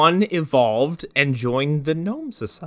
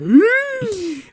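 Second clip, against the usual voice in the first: loud high gasp; mock horrified gasp; 6 dB louder than usual. Acting out their shock at the scene, horrified gasp. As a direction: gasp sharply in exaggerated shock.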